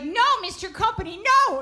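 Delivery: put-on high, whiny little-girl no; hammed-up childish protest; mock protest. Kid protesting in game.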